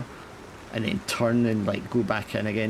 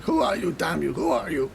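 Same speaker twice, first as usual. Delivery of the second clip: higher captain voice demanding a name; wild captain; 7 semitones higher than usual. Acted. Captain grips the sailor's shoulders, demanding his name. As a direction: demand it like a half-mad captain. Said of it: "and he's like".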